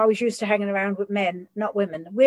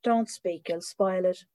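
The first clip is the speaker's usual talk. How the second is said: mock hush; 2 semitones lower, 6 dB quieter, slower than usual. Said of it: "and I'd go".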